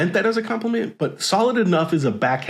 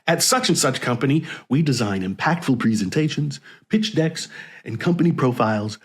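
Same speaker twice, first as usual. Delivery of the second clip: put-on salesy voice. Reading a cold pitch DM in a mild mock salesman voice. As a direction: read his pitch like a bored salesman parody. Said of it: "I don't know why I'm using that voice".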